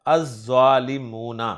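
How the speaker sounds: अज़्ज़ालिमूना said az-zālimūna with a doubled z; अज़्ज़ालिमूना: long double z, lam silent; Arabic article demo. Shown as a demonstration. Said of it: "तो लाम नहीं पढ़ेंगे".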